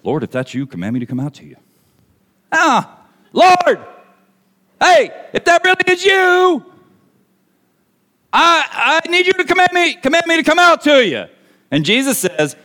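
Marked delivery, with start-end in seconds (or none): 0.0-1.6 low, soft, understated reading; calm, hushed request; mild polite request. Acted. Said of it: "Peter's response is". 2.5-11.3 high, halting shouted plea; urgent high-pitched yell; yelling over storm. Acted. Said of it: "That's how loud everything is going on".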